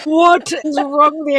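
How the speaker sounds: high, incredulous retold outcry; shocked rebuke. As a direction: re-enact scolding in disbelief. Retelling her shocked rebuke.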